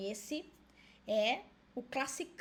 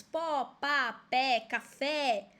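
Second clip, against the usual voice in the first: "pó, pá, pé, café" com cada sílaba final tônica bem marcada; tônica na última sílaba; 4 dB louder, much slower than usual. Shown as a demonstration. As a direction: destaque "pó", "pá", "pé" e o "fé" de "café". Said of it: "você acentua a última sílaba". ("pó, pá, pé, café" com ênfase na última sílaba)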